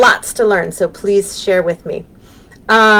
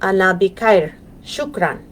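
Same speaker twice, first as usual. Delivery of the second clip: أنا بخير شكرًا with an American accent, "bikair"; American learner's repeat; much faster than usual. Shown as a demonstration. Teacher copies the clip for kids, American accent. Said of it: "thick American accent".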